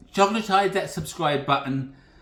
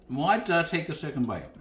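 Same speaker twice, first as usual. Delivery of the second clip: mouth full. Real, not acted. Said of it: "with my mouth full".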